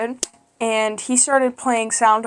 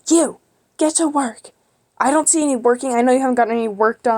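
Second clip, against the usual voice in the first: imitating a strict sub, higher and sharp; stern teacher scolding; 3 semitones higher, faster than usual. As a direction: scold the spacing-out kid, faster at the end. Strict substitute scolds a daydreaming student.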